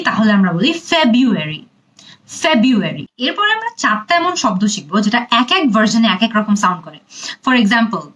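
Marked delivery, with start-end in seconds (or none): 0.9-3.0 American ফেব্রুয়ারি said as feb-u-ary; American English. Shown as a demonstration. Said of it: "আর যদি American English বলি". (American উচ্চারণে ফেব্রুয়ারি)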